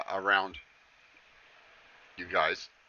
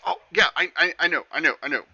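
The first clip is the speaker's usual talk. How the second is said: higher, louder fumbling excuses; sheepish satyr; 6 semitones higher, 4 dB louder, faster than usual. Acted. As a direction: backpedal nervously before the queen. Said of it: "And he goes".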